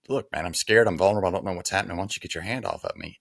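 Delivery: pushing him away, voice up and firm; mock macho defiance that fades at the end; gruff tough guy. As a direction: brush off the helping hand like a hard case. Retold tough-guy line, then reversed.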